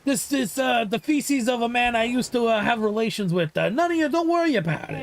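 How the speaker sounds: a shady gangster explaining away evidence; mock mobster. Friend riffing a mobster hiding a jar, hammed wiseguy voice.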